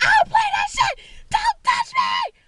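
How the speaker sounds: very high, shrill, furious screaming. Retelling screaming at someone who touched her: retelling her own screaming. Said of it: "I just started screaming".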